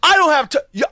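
imitating the road-rage driver; mock unhinged yell. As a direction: rant like a man losing it. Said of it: "he flew off the handle".

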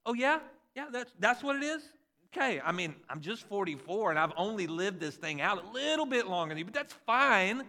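sarcastic, teasing parent voice; mock the know-it-all kid; mock sarcastic dad. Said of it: "I'm like".

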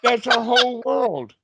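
high laughing echo. Real, not acted. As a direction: toss the line back laughing.

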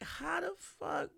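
high, slow incredulous gasp; can't believe what she's hearing; stunned disbelief. Retold or imitated. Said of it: "I was like".

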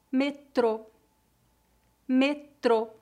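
Metrô ending in a closed /o/. Shown as a demonstration. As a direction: say Metrô with tight round lips. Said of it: "Pronúncia fechada".

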